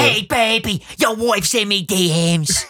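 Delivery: put-on slow Irish accent taunt; Conor McGregor impression. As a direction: drawl it in an Irish brogue. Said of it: "I'm getting better at it".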